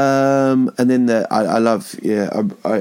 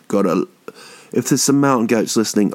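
ordinary delivery

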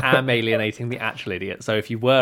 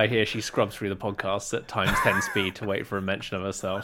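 laughing; 3 semitones lower than usual. Real, not acted. Laughs about girlfriend scrubbing podcast.

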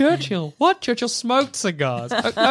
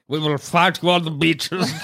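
roaring rallying speech; 4 semitones lower than usual. Retold or imitated. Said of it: "a parody of Churchill's speech".

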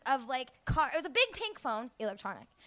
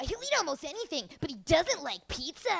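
toy phone voice; 3 semitones higher, 4 dB quieter than usual. Retold or imitated. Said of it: "he'll be like".

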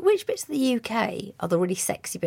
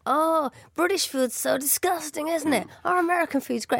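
mock American; 6 semitones higher than usual. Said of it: "the Americans were all going".

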